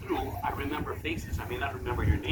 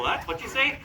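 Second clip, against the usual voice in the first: mock confused; 8 semitones higher than usual. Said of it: "they have a little".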